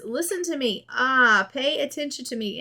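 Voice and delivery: whiny toddler wanting attention, lightly played; fussy toddler. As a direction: narrator voicing a fussy toddler for his mom, a mild mock whine. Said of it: "he is angry from being a fussy toddler".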